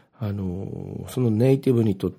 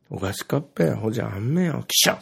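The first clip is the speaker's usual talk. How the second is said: Ibaraki dialect. Retold or imitated. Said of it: "茨城弁ネイティブ、えー、から言わせていただくと".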